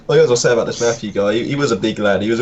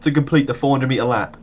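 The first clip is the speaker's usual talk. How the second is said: much higher, teacher in disbelief; high incredulous; 5 semitones higher than usual. Retold or imitated. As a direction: ask it in mock amazement. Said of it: "he goes".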